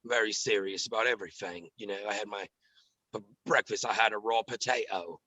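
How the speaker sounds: low, serious British military hard man; soft, gritty tough-guy voice, dead serious; Clover. Acted. Comedian slips into his military phone-prank character, gritty and serious. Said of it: "really gritty".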